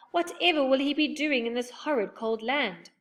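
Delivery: lightly voiced young girl; worried girl's voice. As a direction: fret about the missing brother. Beth voiced in story.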